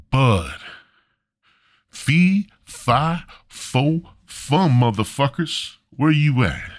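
comic fairy-tale giant scolding, word by word; angry God. Acted. God returns to find his bud smoked, slow and wrathful.

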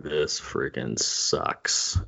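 low, very slow disgruntled mumble; retold grumble. Fan stuck in bad seats, low slow grumble. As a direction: drag out the complaint under your breath.

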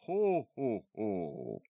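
big booming Santa laugh-call from the hallway; bellowed ho ho ho. A narrator's reading. Dad in costume greets kids, booming Santa call. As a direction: boom it out like Santa arriving. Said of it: "bellowed from the hallway".

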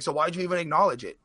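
lightly voiced dad asking why; father. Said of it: "He's like".

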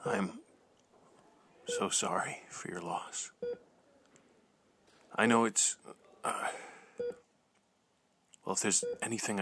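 soft whispered condolence. Acted. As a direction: murmur it gently, barely voiced. Condolences in hospital.

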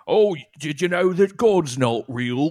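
slow smug mock question. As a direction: drawl it out smugly. Imitating Gervais smug atheism.

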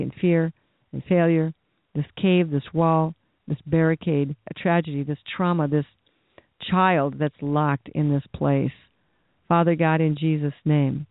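earnest spoken prayer, steady and pleading; fervent prayer. Real, not acted. Pastor praying over his listeners, earnest and pleading. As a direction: pray over them with conviction.

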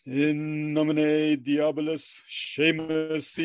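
very slow, solemn chant; drawn-out ritual intoning; mock incantation. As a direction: intone it like a black mass.

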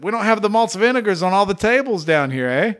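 light Canadian accent, ending on a teasing "eh?"; a playful hint of Canadian accent; mock Canadian accent. Shown as a demonstration. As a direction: lean into a Canadian accent to tease the fans. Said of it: "and this is how I said it".

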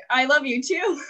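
casual, distracted I love you too; breezy brush-off; offhand. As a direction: say it while busy with something else. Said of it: "I'm just like".

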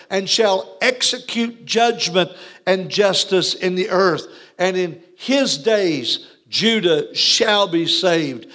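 measured preacher quoting scripture. Acted. Reads scripture aloud.

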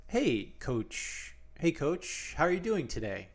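put-on stiff TV interviewer voice. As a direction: imitate an overly proper interviewer. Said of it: "Why are you talking like that?".

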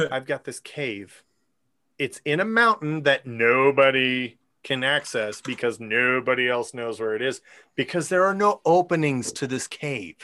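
lightly voiced low storyteller quote; Andral. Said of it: "So Andral says".

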